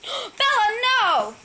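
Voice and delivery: high gasp then a loud no; startled gasp and shout. Real, not acted. Owner sees the dog chewing the cat toy, startled shout. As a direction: caught off guard, call the dog off.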